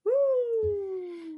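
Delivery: high held-out woo; excited whoop. Real, not acted. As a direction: cheer it high and long. Cheering Rowena's move.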